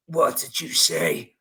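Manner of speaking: very low, slow menacing villain voice; The Dark Knight crossed with Bane. Retold or imitated. Huge man answering the stranger who scolded him, deep villain voice. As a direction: drop right down and challenge him slowly. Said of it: "sounded like a cross between The Dark Knight and Bane".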